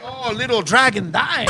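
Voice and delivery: slow, imitated Chinese girlfriend; mock Chinese accent. Girlfriend teasing her man in bed, mock Chinese accent. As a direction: put on a drawn-out Chinese accent. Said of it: "She was like".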